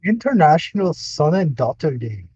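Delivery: a put-on Canadian accent, Scottish-leaning. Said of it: "Can you say it in your Canadian accent?".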